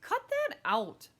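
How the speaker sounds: slow, high, loud order; annoyed protest. Acted. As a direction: tell a teaser to stop. Boy snaps at teasing girl.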